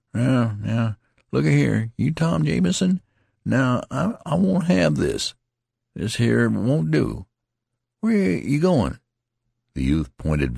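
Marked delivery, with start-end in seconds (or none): 0.1-9.0 higher, louder, slow pleading ramble; rambling and slurred pleading; rambling wounded man. A narrator's reading. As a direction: plead with him, half-dazed. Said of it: "rambling in an idiot fashion".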